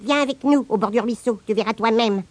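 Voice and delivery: voix de fourmi aiguë et menue; cheftaine des fourmis. Acted. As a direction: petite cheffe fourmi qui invite. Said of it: "répondit la cheftaine des fourmis". (la cheftaine invite Hirondin, voix de fourmi aiguë)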